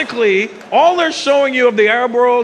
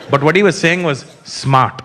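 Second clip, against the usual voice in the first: put-on Indian accent; 7 semitones lower than usual. Continuing Indian voice, lower.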